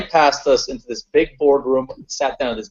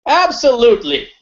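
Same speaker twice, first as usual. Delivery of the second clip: emphatic yes; 10 semitones higher, 4 dB louder than usual. Retold or imitated. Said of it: "the big guy says".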